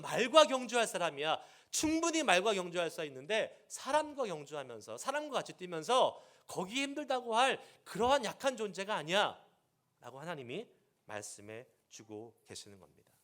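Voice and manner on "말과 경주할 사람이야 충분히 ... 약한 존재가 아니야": loud firm rebuke; God urging Jeremiah on, firm and loud; stern exhortation. Pretend. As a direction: challenge him to rise up. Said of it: "다그치세요".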